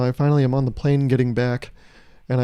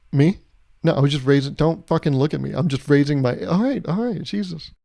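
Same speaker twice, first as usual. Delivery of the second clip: defensive attitude. Pretend. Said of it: "if someone had attitude about that".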